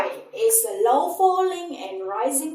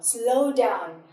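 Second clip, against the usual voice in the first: ordinary delivery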